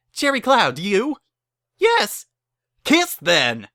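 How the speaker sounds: rushed vows. Acted. Barry hurries the couple through vows, loud and rushed. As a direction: rush the vows before he arrives.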